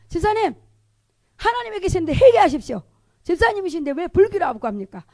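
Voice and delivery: loud, high exhortation; acted stern rebuke. Evangelist confronting a deacon who claimed Buddhism, stern rebuke.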